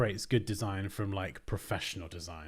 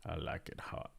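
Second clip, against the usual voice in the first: whispered echo; 5 semitones lower, 10 dB quieter than usual. Pretend. Repeating chat line in hushed voice.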